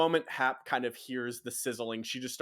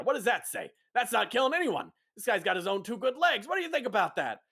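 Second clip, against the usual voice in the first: higher, animated self-justifying; pleased gang boss; 8 semitones higher, 3 dB louder than usual. Acted. Boss pitching his compromise to Hap, pleased. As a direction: sell your plan proudly.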